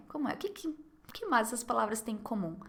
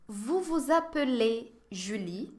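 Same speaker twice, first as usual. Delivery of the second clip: "Vous vous appelez Julie?" slow, rising at the end; slow model question; slower than usual. Shown as a demonstration. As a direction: ask slowly so learners catch it. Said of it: "Je vais vous poser quelques questions". (pergunta devagar, subindo no fim)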